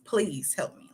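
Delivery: please help me whispered; unvoiced pleading please help me. Shown as a demonstration. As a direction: breathe please help me softly. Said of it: "Let's put an emphasis on help".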